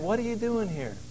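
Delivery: soft, gentle asking, no berating; gentle question. Acted. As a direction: ask it kindly, like a caring father. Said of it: "not saying that in a berating way ... but a gentle way".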